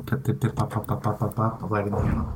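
soft murmured sound effects; soft ASMR voice. Pretend. ASMR candle lighting.

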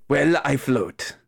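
put-on slow, Spanish-accented reply. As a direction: answer unhurriedly with a Spanish accent. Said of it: "Peter do a Spanish accent".

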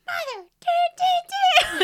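high squeaky rising do do do; mock near cussing. Almost cussing about the forgotten gift, high squeak. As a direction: swallow a curse word. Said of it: "I was like".

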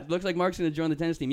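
a hint of the brother's smug line; imitating older brother.

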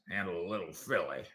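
Texas cowboy accent. Shown as a demonstration. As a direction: repeat it as a Texas movie cowboy. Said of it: "Texas cowboy actor accent".

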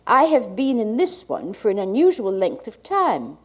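like a 1980s archival tape. Real, not acted. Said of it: "the cassette holding the speaker's reading".

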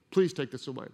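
low, softened plea to God; subdued pleading. Retold or imitated. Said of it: "I just begged".

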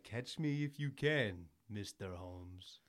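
slow, cocky challenge to the detective; smug villain taunt. Retold or imitated. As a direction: draw it out like a smug villain leaning back. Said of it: "and he's like".

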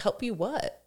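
mock puzzled question, rising at the end; a touch of bemused disbelief; baffled locals. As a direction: play the confused bystander. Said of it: "people are like".

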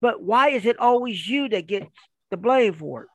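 emphatic, incredulous questioning; mock the wife's baffled complaint; imitated exasperated wife. Wife asks why husband always gets blamed, mock exasperation.

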